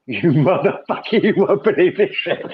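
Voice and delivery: cracking up while trying a put-on voice; laughing through an attempted accent. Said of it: "I can't do a black accent".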